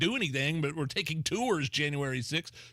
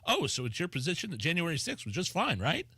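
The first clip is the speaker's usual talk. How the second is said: mocking impression; 3 semitones higher than usual. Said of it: "Progress C E O doofus going".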